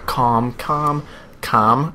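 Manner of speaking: a silent-L "calm", repeated as people might say it; calm without the L. Shown as a demonstration. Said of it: "all you people just saying calm".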